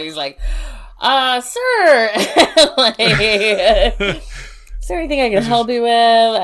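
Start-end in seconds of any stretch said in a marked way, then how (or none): 1.0-5.9 high, drawn-out mock-polite intervention, breaking into laughter; laughing retelling. Coworker Dave confronting the strange visitor, imitated through laughter. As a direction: imitate a coworker stepping in, cracking up.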